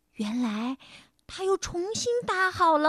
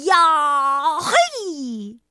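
loud karate yell; roar; 6 dB louder than usual. A narrator's reading. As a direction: shout like a karate kick. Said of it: "大吼一声". (空手道式大吼)

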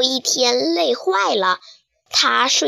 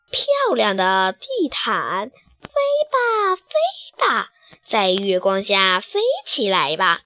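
coaxing sweet talk; slower than usual. Acted. Sweet-talking the carpet.

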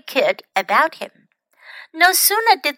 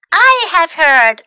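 putting on bravery; 7 semitones higher, 7 dB louder than usual. A narrator's reading. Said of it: "looking far braver than he felt".

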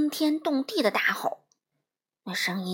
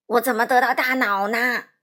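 loud, wailing lament; crying out; 8 dB louder than usual. A narrator's reading. Scarecrow asking about his brain, crying out loudly. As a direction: wail the question at full volume. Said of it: "稻草人哭喊着说".

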